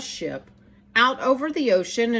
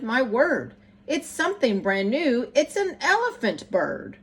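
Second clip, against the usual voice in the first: amazed shout. Acted. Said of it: "they shouted".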